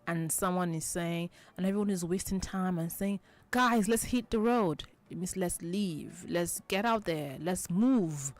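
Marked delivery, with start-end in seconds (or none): 3.5-4.8 calling out. Retold or imitated. Teacher acts friend calling group.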